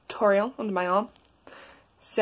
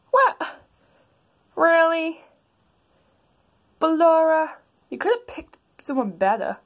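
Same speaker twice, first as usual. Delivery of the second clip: much higher, louder disbelieving shriek; shocked mom; 7 semitones higher, 5 dB louder than usual. Acted. Toriel learning about Ballora, high shocked.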